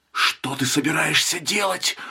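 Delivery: hoarse whisper. Narrator reads the husband gripping his wife's arm and asking her: hoarse whisper. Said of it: "хрипло прошептал он".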